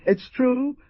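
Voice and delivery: bitter. A narrator's reading. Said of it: "the Jaguar responded bitterly".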